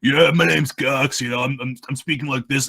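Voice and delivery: lightly put-on lazy dopey lackey; Gox, lazier. Shown as a demonstration. Creator shows how the lackey's voice later changed, lazier delivery. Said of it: "it got a little bit lazier".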